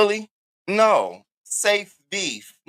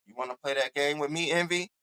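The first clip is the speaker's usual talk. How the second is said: a hint of menacing Diva; 3 semitones lower, 10 dB quieter than usual. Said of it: "Here go Diva".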